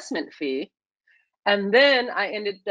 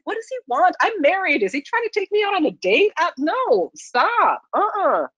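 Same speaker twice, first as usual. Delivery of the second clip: mock alarm; 7 semitones higher, 3 dB louder than usual. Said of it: "I was scared".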